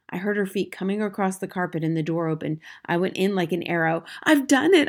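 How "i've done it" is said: high, loud triumphant cry; excited cry. A narrator's reading. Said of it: "I cried".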